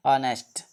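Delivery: "ऑनेस्ट" beginning directly on the vowel; silent H. Shown as a demonstration. Teacher answers own question to pupils, "ऑनेस्ट" with silent H. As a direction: repeat "ऑनेस्ट", dropping the H. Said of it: "इसको क्या बोलेंगे?".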